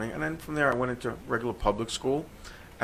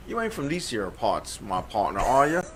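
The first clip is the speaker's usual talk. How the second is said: mock Texas accent; 3 dB louder than usual. New Yorker imitating Texans who question him, mock Texas accent. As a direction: put on a playful, not-quite-right Texas accent. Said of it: "someone here in Texas, ... said to me".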